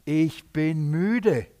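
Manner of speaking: very slow, drawn-out weariness; tired, disappointed. Retold or imitated. Jesus confesses he is tired of their unbelief, weary. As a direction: stretch it out as a weary admission. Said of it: "Warum ist er so enttäuscht?".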